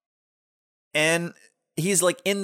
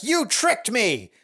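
higher, drawn-out accusing voice; mock accusation; 6 semitones higher, slower than usual. Queen turning on her lover, mock accusation. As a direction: act out a hammed-up betrayed queen.

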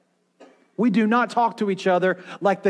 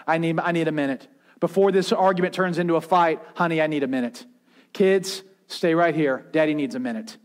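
calm withdrawal; 2 semitones lower than usual. Acted. Models calmly withdrawing from argument.

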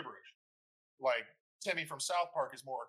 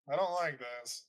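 talking with plugged ears; hearing own voice muffled; 3 dB louder than usual. Real, not acted. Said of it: "That's how you sound".

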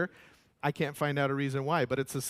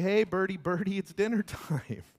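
calling the birds; 5 semitones higher than usual. Pretend. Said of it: "It's like".

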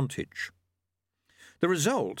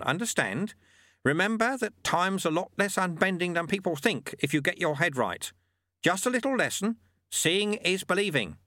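put-on higher, patient old mentor voice; wise old monk; 7 semitones higher than usual. A narrator's reading. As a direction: teach the lesson like a wry old sweeper. Lutze lectures in character.

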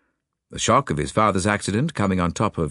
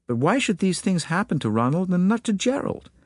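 put-on faint American accent; 8 semitones higher than usual. A narrator's reading. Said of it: "faint transatlantic accent".

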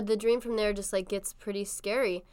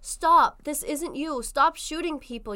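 higher-pitched dramatic plea; mock pleading; 5 semitones higher, 4 dB louder than usual. Dreamer begs the shooter to stop, mock pleading. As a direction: plead earnestly, lightly hammed-up.

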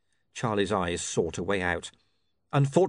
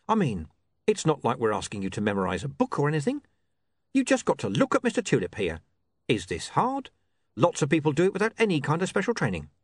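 higher, cajoling reasonableness; patient criminal boss; 6 semitones higher than usual. Acted. Mister Pin coaching Charlie for impersonation, patiently cajoling. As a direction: make it sound easy, with strained patience. Mr Pin's figure voice.

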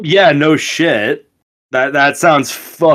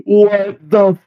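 slow, higher-pitched astonishment; stunned disbelief; 5 semitones higher, slower than usual. Real, not acted. Friend sees the bizarre Pope table photo, slowly, in stunned disbelief. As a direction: draw it out, appalled and amused. Reacting to photo just shown.

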